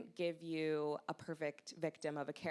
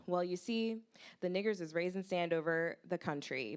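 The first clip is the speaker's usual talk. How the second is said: holding back laughter; 3 semitones higher, 5 dB louder than usual. Acted. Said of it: "struggling to keep back his laughter".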